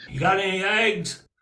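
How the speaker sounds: eggs said with a flat a, like "aigs"; mountain eggs. Shown as a demonstration. Teller shows how eggs is said locally. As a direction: say eggs the way they do down here. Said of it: "that's what E sounds like down here".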